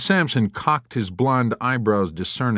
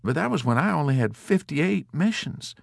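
self-satisfied Dobbs; 6 semitones higher than usual. A narrator's reading. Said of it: "puffing on his cigar luxuriously".

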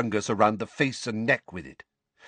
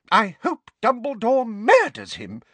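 high, loud, venting outburst; furious; 14 semitones higher, 5 dB louder than usual. A narrator's reading. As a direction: wish the worst on the culprit. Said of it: "said Missus Figg furiously".

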